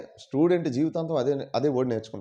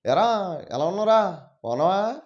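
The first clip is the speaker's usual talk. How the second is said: higher, swooping Godavari lilt; Godavari accent; 4 semitones higher than usual. Shown as a demonstration. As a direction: imitate a Godavari-district Telugu greeting.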